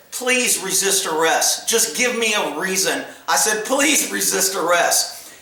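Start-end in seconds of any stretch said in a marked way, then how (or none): 0.1-3.0 slow, deliberate dare; retold menace in his ear. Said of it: "leaned over in his ear and I said". 3.7-5.3 slow, deliberate dare; retold menace in his ear. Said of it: "leaned over in his ear and I said".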